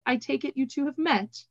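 soft-edged question, pitched a little high; mild. A narrator's reading. Nico to two startled acquaintances, mildly asking. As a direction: ask lightly, with mild curiosity. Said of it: "asked Nico mildly".

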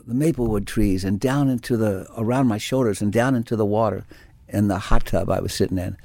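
normal talking voice

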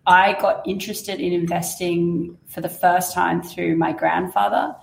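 hoarse, croaky throat; talking through a croaky voice. Real, not acted. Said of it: "I do have a croaky voice at the moment".

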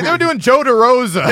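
imitating Dave. Retelling Dave explaining the podcast, high mock voice. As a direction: squeak it out like an eager guest. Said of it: "He's like".

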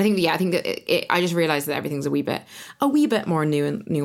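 a light Scottish accent creeping in on "a wee bit"; slipping Scottish accent. Real, not acted. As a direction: let a touch of Scottish accent slip out unplanned. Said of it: "Trying your Scottish accent again".

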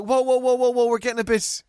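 high, loud startled backing off; alarmed whoa. Retold or imitated. Customer pleading with a reckless barber, high and loud. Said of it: "I was like".

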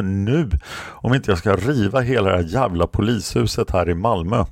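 a hammed-up rage at being locked up; retold angry outburst. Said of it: "får ett jättestort utbrott". (återberättat utbrott, högre och upprörd mot polisen)

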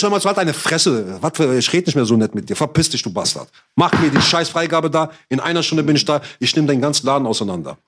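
re-enacted angry threatening rant; angry threats. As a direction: act out laying down an ultimatum. Retold threats in a quarrel.

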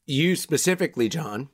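talking around a lozenge; sucking a hard candy. Real, not acted. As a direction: lozenge in the mouth. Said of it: "you sound crazy right now".

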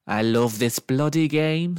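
slow, relishing exclamation from an onlooker; thrilled, stretched-out cheer; delighted cheer. A narrator's reading. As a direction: draw it out with excited relish. Crowd member cheering the win.

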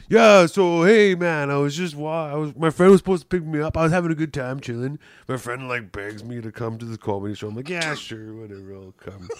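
lightly voiced griping buddy; Roger impersonation. Roger bitching to his friend about the night, lightly put-on gripe. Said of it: "this is my imper-, per-, impersonation of Roger".

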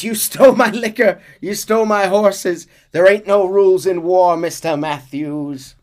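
high loud defiant shout; shrill defiance. Acted. Mrs Braithwaite shouting defiantly at Hosea. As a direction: spit it back at Hosea. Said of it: "She says".

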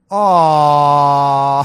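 loud drawn-out fake sympathetic aww; mock pity aww. Mock sympathy at the lady, loud aww. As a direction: coo it like pitying a child. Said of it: "And I go".

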